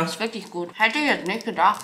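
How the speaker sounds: talking with mouth full. Real, not acted. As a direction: speak around a mouthful. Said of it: "dass wir immer mit vollem Mund sprechen".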